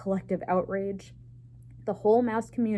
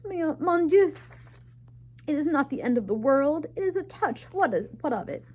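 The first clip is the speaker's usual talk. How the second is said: high, loud French mother; shrill-free high motherly alarm in a French lilt; French mother in dismay; mother's voice; 7 semitones higher, 4 dB louder than usual. A narrator's reading.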